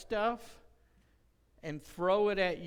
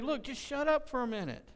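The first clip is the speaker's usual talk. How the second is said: retold exasperation; 8 semitones higher than usual. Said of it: "get so mad at him".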